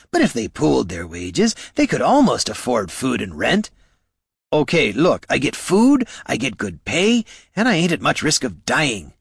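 sarcastic little kobold, riled up; indignant kobold. Acted. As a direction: needle the hero with sarcasm. Kobold Bert's indignant rant.

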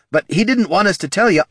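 rattled, pleading explanation; flustered stammer. Acted. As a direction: blurt a nervous excuse. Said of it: "stammered Gorm".

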